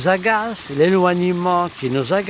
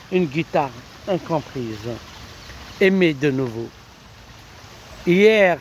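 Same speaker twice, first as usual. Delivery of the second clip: lyrical love-poem recitation; poetry reading; 2 semitones higher than usual. Acted. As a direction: read it as verse, lifting the questions. Recites a poem after commentary.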